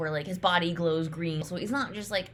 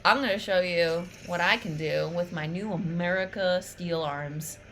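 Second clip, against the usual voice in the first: cocky Jax. Retold or imitated. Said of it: "but then Jax is like".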